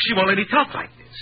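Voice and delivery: bitter mimicry of a scolding mother; a lightly voiced nagging mother; mocking her voice. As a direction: echo her words back with contempt. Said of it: "That's my mother's voice".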